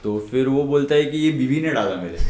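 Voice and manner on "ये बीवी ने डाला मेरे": quoting the husband while laughing; can't hold the laugh; patient's excuse, giggling; laughing through it. Retold or imitated.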